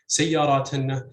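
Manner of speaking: سياراتنا stressed on the first syllable. Shown as a demonstration. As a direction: hit the opening syllable of سياراتنا. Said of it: "pronounced with stress on".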